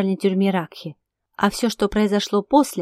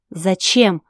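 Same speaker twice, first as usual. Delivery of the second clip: ordinary delivery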